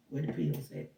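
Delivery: hushed whisper while searching; whispered to herself. Retold or imitated. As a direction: whisper it to yourself, digging through the bag. Searching luggage, muttering to herself.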